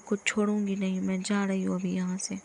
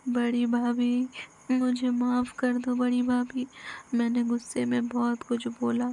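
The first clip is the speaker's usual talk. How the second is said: tearful apology; 3 semitones higher than usual. Acted. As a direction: beg her elder sister-in-law to forgive. Injured woman begs sister-in-law forgiveness.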